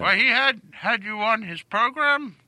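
put-on old man voice. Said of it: "Stop talking like an old man".

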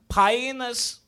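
high mock-Portuguese "Painus". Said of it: "This is how I say penis in Portuguese".

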